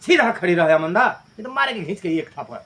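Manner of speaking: loud threatening scold; mock stern mother. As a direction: warn her, half-joking, of a slap. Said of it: "माँ ऐसा बोलती है".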